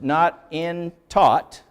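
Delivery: "Not in taught, human wisdom words." read very slowly, with a stop after each word; word-by-word literal reading. Shown as a demonstration. Teacher showing the class how clumsy a literal text sounds. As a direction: plod through it like a stiff literal gloss. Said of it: "See, this is literal".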